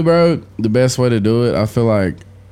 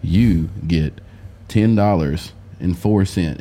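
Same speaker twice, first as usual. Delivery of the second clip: put-on slow, lower Lord of the Rings accent, robed wizard; 8 semitones lower, 4 dB quieter, slower than usual. Robed Jesus-like figure reads out the will, slow Lord of the Rings accent. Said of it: "like the Lord of the Rings accent".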